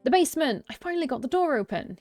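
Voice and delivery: high, loud triumphant yell. A narrator's reading. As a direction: shout the news in triumph. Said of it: "he yells triumphantly".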